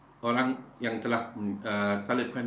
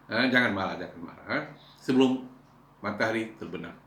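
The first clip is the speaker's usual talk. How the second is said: soft coaxing apology. Pretend. Husband coaxing an angry wife, soft and tender. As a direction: make up with your wife gently.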